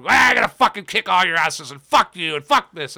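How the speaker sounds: loud mock wrestler rant; Jericho. Mocking his New Japan promos, loud imitated tough-guy rant. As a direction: burst in with hammed-up swearing. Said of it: "the way he would just come up".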